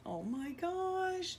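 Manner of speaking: high, slow, melting oh my gosh; high tender gush. Real, not acted. Mother melting over photos of her kids, high and slow. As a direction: let it melt out slowly.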